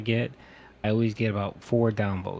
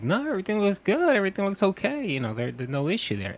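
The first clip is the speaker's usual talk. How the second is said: doctor voice; 10 semitones higher than usual. Retold or imitated. Quoting the doctors.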